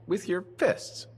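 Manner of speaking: slow, disbelieving question rising high; incredulous. Acted. Player in disbelief at a scholar fist-fighting, slow incredulous rise. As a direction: stretch it out in disbelief.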